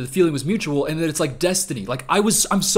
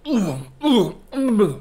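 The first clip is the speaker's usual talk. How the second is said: mock kissing moans; 7 semitones higher, 4 dB louder, much slower than usual. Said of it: "That's how I'd kiss".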